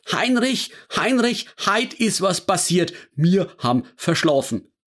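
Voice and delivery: high, urgent Franconian grandma calling her husband; alarmed old wife crying out her husband's name; panicked wake-up call. Acted. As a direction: shake him awake in a flustered rush.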